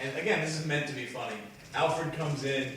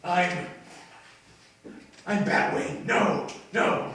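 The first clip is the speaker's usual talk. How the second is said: higher and louder, fumbling the name; flustered; 7 semitones higher, 10 dB louder, slower than usual. Retold or imitated. High, loud flustered fumbling. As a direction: Batman panics introducing himself to Dick. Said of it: "he's like".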